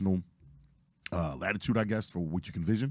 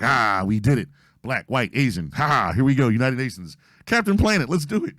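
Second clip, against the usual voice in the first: loud celebratory cheering, building to a high shout; hammed-up victory cry, climbing in pitch; mock triumphant cheer; 4 semitones higher, 7 dB louder than usual. Rescuer cheering the teamwork after pulling her up, mock triumphant.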